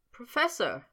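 tight, choked-up call; strangled voice. A narrator's reading. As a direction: force it out through a tight throat. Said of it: "in a strangled voice".

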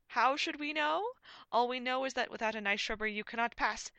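loud, high, pompous voice; projected comic knight voice; indignant knight. A narrator's reading. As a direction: proclaim the ban indignantly. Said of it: "the rest of the knights chanted".

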